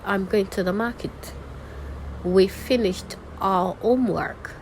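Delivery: measured statements, "market" and "house" dropping; falling tone. Shown as a demonstration. Teacher reading statement examples, closing each with a fall. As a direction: land each last word, like "homework", downward. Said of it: "for falling tone".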